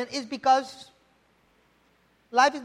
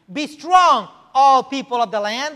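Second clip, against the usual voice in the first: loud rallying charge; proclaiming; 2 semitones higher, 8 dB louder than usual. Retold or imitated. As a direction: rouse the whole people. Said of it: "declares the Lord".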